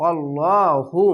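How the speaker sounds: "আল্লাহু" with heavy, dark ল্লা; chanted "আল্লাহু", rounded full lam; thick Allah lam. Shown as a demonstration. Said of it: "আল্লাহ লেখাটি মোটা করা হবে".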